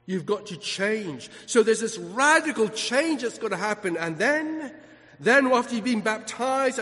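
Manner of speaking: building sermon rhythm, driving the point; fervent preaching. Real, not acted. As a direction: press the congregation onward with conviction. Preaches radical change.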